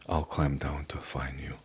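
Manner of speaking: a hushed whisper, as God speaking to him; God's voice, whispered. Retold or imitated. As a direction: softly voice God's reassurance, barely breathed. God's words voiced in testimony.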